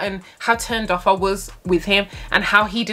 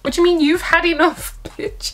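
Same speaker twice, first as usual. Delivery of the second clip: indignant retort; 9 semitones higher than usual. Retold or imitated. She fires back.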